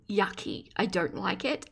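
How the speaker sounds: a muttered, settled yucky; flat disgust. Real, not acted. Repeating her verdict on gum chewing, soft falling yucky.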